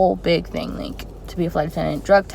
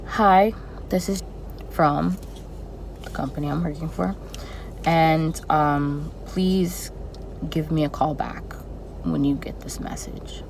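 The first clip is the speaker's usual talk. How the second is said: a flat, sorry-sounding message; sad monotone; 2 semitones lower, 5 dB quieter than usual. Retold or imitated. Recruiter leaving a gloomy voicemail, sad monotone. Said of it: "Super sad, super monotoned".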